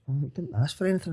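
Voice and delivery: put-on a light take on the girlfriend; girlfriend's reply. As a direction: rattle off her reasonable answer.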